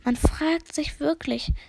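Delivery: slow, drawn-out musing; dozy repeated musing; musing murmur. Acted. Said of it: "murmelte immer wieder".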